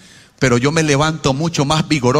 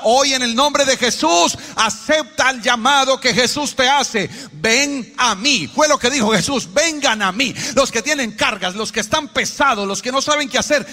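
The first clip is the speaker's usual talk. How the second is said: fervent preaching; 6 semitones higher than usual. Real, not acted. Preacher calling the burdened to Jesus, fervent appeal. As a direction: proclaim it in a raised preacher's voice.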